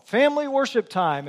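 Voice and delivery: mild mock call across the house. Father summons the family to worship, calling out. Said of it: "You see the call go out across the home".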